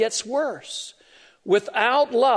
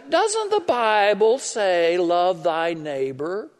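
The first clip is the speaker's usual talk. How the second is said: condescending; 2 semitones lower, slower than usual. Retold or imitated. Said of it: "in a very condescending tone".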